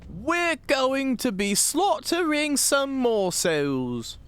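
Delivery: high, slow put-on British accent. Streamer copying the game character in British accent. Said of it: "I sound more British?".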